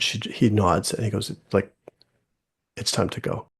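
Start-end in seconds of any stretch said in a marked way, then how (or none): 2.8-3.5 put-on soft whisper so the child won't notice; a quiet whispered aside to the dad; whispered cue. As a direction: hush it discreetly to the parent. Counselor signals dad to leave quietly.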